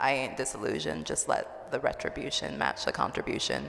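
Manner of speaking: ordinary delivery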